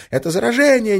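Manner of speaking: high screaming wail, not hoarse; girl faking infection screams to scatter the crowd. Acted. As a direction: scream it out in feigned terror. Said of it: "истошно вопя".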